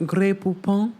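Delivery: a hint of a snooty rich lady; mock posh Lisa. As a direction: say it like a fancy ad. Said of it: "acting all kind of".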